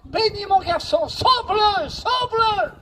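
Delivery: a father's retold cry to God. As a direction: cry it up to heaven for your son. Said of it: "il criait à Dieu".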